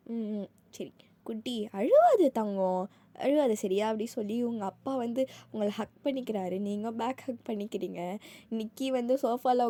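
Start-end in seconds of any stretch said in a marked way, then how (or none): 0.1-3.9 put-on father consoling his little girl; tender comfort. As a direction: hush her tears gently. Father comforts crying daughter.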